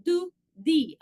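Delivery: "do" and "di" said slowly with a light D; gentle D. Shown as a demonstration. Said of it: "like a little D sound".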